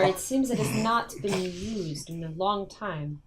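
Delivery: slow, measured admiring character; lightly played, slow and courteous adventurer; formal adventurer.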